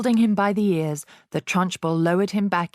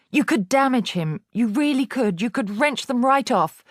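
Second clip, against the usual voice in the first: higher anxious pleading; urgent pleading teacher; 7 semitones higher than usual. A narrator's reading. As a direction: keep begging her. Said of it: "begged Miss Honey".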